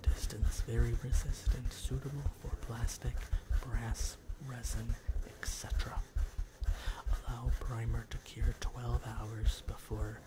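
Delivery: label read close and quick; fast aggressive asmr. Shown as a demonstration. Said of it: "reads the label aloud".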